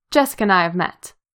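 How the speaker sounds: usual speaking voice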